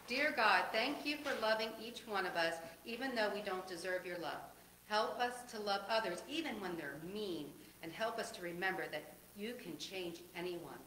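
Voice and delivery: put-on gentle spoken prayer for children. Pastor leading the children in prayer, gentle. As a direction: pray it simply for the little ones.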